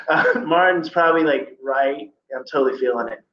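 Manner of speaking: mock California dude, casual and easygoing; playful Californian slang voice; California accent. Shown as a demonstration. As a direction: do it the laid-back California way. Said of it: "that would be the California way to do it".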